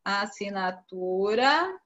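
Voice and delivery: slow and drawn out, with a rise at the end; teacher dictating one word slowly; slow dictation. Shown as a demonstration. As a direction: read the word out slowly for the class to copy down. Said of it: "essas palavras aqui também tem S".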